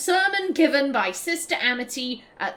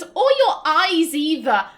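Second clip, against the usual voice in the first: sly threat; 4 semitones higher, 6 dB louder than usual. Retold or imitated. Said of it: "And she goes".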